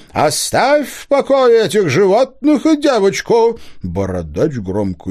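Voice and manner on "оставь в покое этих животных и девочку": high, slow, ringing command of a forest spirit; ringing booming voice. A narrator's reading. Spirit voice from the hollow commanding the hunter, ringing and rolling. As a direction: boom it out like a hidden spirit.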